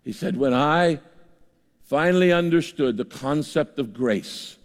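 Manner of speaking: a hint of thick Austrian accent; Peter Drucker Austrian accent. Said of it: "in that thick Austrian accent".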